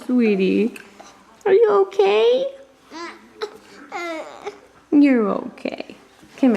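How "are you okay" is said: sharp playground warning. Real, not acted. Checking baby after stumble.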